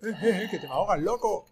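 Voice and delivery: shouted warning; loud call-out. Real, not acted. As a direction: yell it out to a teammate in trouble. Shouting at a drowning teammate.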